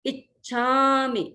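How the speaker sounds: इच्छामि with light stress on इ, slowly; इच्छामि, slow, with a lengthened छा. Shown as a demonstration. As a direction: press the first syllable of इच्छामि. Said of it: "ई पर थोड़ा सा दबाव".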